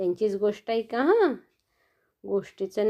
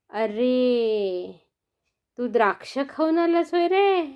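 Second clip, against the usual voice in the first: surprised guess. Acted. Rabbit guesses grapes.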